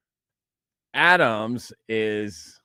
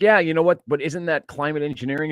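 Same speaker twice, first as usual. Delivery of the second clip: louder triumphant comeback; higher, pouncing on his point; gotcha reply; 4 semitones higher, 5 dB louder than usual. Retold or imitated. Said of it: "I'm like".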